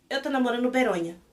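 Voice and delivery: unenthusiastic. Retold or imitated. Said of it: "Com essa empolgação".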